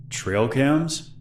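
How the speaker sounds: sharp rising question, lifted high and kept soft; surprised echo. A narrator's reading. Stranger caught off guard by the girl's mention of trail cams, surprised echo. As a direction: caught off guard, toss the words back as a question. Stranger echoes, smile faltering.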